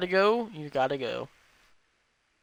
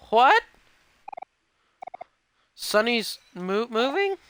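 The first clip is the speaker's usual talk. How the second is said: high, loud startled cry; shocked; 7 semitones higher, 5 dB louder, slower than usual. Acted. Friend hears the news and gasps in shock. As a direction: jolt up in disbelief. Voicing shocked character line.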